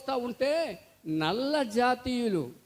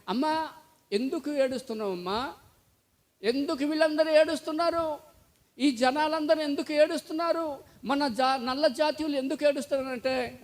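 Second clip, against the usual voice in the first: put-on child asking; 4 semitones higher than usual. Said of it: "ఒక పిల్లోడు ... ఏమన్నాడంటే".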